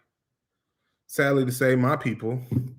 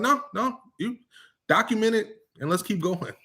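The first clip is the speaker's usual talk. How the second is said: boss voice; 9 semitones higher than usual. Retold or imitated.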